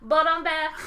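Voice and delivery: hammy bad-guy boast of return; slow theatrical villain menace. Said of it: "Tywin Lannister was like".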